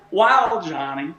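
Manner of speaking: playful sportscaster impression, dropping away at the end; Harry Carey. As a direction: draw out the wow like a ballgame caller. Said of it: "That was my Harry Carey voice".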